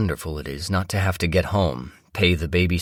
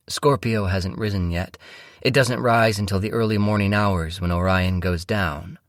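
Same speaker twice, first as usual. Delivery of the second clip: higher, dreamy woman's voice; wife voice; 3 semitones higher than usual. Acted. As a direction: lift the pitch, gaze at the sky. Narrator voices wife Mia.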